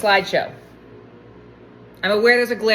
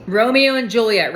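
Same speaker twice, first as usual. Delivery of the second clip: louder, punchy delivery; eager announcement; 5 dB louder than usual. Real, not acted. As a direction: announce the famous pair with gusto. Picks the couple eagerly.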